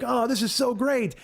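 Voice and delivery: high, slow mock rapture; imitated delight. Dude lifted in the air by a hug, imitated high, drawn-out delight. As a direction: gush it like the delighted stranger. Hugged stranger's retold delight.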